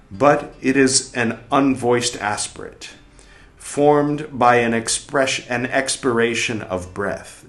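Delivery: measured, deliberate reading of a scholarly text; formal read-aloud. Acted. Reader reciting a dense book passage aloud, formal reading. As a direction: read it out clearly, pausing between phrases.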